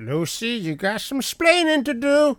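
high, slow, hammed-up scolding husband; mock scold to a co-host, slow and high; mock sitcom scolding. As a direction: ham up the classic sitcom line. Quoting a famous sitcom line.

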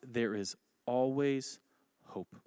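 slow and soft, lingering on always before hope; soft promise. Acted. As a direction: let there is always hope sink in gently. Quiet drawn-out promise.

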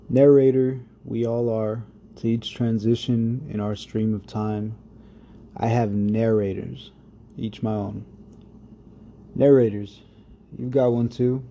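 spoken-word poem, unhurried; poem recitation. Acted. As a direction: let each image land with pauses. Reads his poem over music.

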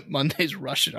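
trying not to laugh while reading; stifled laughter. Real, not acted. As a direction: headline broken up by a laugh. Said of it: "I don't know why I'm laughing".

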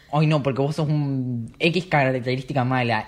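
mock insult. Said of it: "me insulta".

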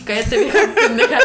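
half-laughing retold rebuke; amused retelling of a father's scold; laughing mock scold.

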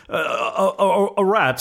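stammering, high and trembling; shaking tone. A narrator's reading. Frightened husband to his wife, stammering and shaking. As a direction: lie badly through terror, stuttering. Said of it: "said the old man in a shaking tone".

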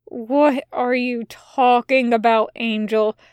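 a touch of tiredness, slowed; very tired. Acted. Tired demon questioning the angry angel, mildly weary. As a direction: say it wearily, a little slow. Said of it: "sounding very tired".

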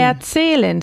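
Erzählen avec un E long et tiré; étire bien le E de Erzählen; long E demo. Shown as a demonstration. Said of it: "se pronuncia que como la E muy, muy larga".

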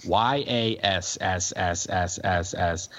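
Y A S S S S S S S spelled letter by letter, slowly. Shown as a demonstration. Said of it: "how much I hate two words".

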